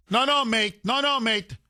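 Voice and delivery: mocking mimicry. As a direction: ridicule the officer's dismissal. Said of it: "mocking the cop".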